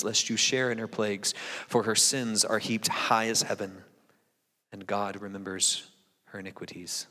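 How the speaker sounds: measured solemn Bible reading; scripture reading. Acted. Pastor reading Revelation to the church, solemn and measured. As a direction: read the text to the congregation with weight.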